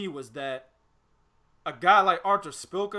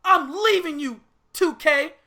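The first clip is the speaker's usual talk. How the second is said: mock hoe walking out; 8 semitones higher, 5 dB louder than usual. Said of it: "Motherfucker said".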